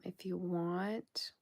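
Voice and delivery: slow whispered invitation. Real, not acted. Inviting viewers to become members, slow whisper.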